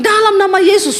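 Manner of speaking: mock rebuke. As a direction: rebuke like a frightened wife casting out a demon. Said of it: "dia tengking". (tiruan hardikan istri, nada tinggi)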